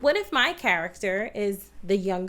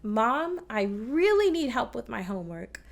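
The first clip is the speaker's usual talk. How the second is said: "really" lifted out of the line; natural plea leaning on "really"; stress on REALLY. Shown as a demonstration. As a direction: put the accent on "really". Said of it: "We already know really".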